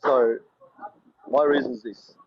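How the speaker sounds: muffled, like through water; speaking from underwater. Real, not acted. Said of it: "You sound like you're underwater".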